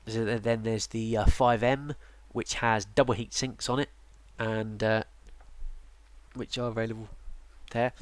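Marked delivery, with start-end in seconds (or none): 6.3-7.9 words stretched by a yawn. Real, not acted. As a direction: talk through a yawn. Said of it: "I'm yawning quite a bit today".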